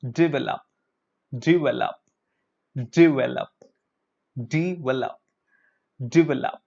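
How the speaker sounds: "Develop" as di-vel-op each time; correct develop, repeated. Shown as a demonstration. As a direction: drill "Develop" with di. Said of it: "pronounce with me".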